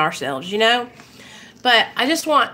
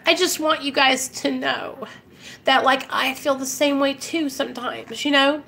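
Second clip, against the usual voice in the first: tearful; 3 semitones higher, 4 dB quieter than usual. Real, not acted. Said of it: "and I don't mean to cry".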